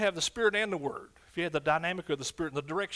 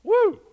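loud high woo of joy; joyful whoop; 14 dB louder than usual. Real, not acted. Preacher stirred up, whooping with joy to the church.

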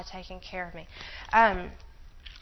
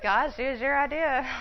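higher mock complaint to God; playful protest; 4 semitones higher, 3 dB louder than usual. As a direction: protest playfully in a raised pitch.

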